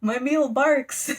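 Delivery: high, loud, very slow monster voice; funny devil talk. Retold or imitated. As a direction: proclaim it slowly as an amused hammy devil. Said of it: "they just talk so funny".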